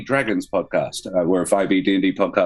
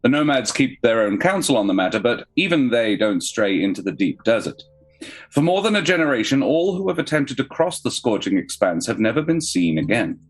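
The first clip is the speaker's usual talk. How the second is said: dramatic scene-setting narration; story narration. Acted. GM reads opening scene.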